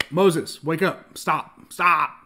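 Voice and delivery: loud, punchy wake-up call, acted out; urgent scolding. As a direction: break through to him in short bursts, as God to Moses. Acts God urgently stopping Moses.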